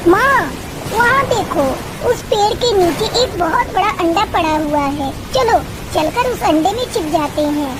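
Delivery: put-on eager young bird pointing out a shelter; a girl calling her mother to look; excited daughter bird. Tuni to her mother on spotting the egg, eager.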